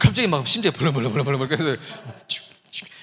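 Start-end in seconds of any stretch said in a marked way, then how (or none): 1.5-2.9 put-on nervous stutter, faster pace. Recalling trying to say a word at a snack counter while stuttering badly, retelling a nervous stutter. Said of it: "말더듬이 너무 심했거든요 / 발음이 안 나오는 거예요".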